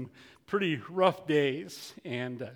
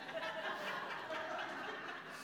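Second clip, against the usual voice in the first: soft unvoiced laugh at the screen; a quiet huff of a laugh; breathy laugh; 14 semitones higher, 15 dB quieter than usual. Real, not acted. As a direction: laugh under the breath in disbelief. Laughs at pioneer website.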